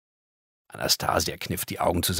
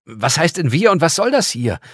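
a loud, higher exasperated call; 9 semitones higher, 9 dB louder than usual. Acted. Girl demanding answers from the angel, loud and exasperated. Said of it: "rief Anastasia".

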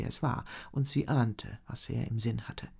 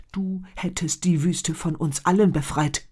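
louder, biting and hard; angry retort; 5 semitones higher, 9 dB louder than usual. A narrator's reading. Chief snaps at the shaman, angry. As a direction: spit the words back at him. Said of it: "zischte Muktab wütend".

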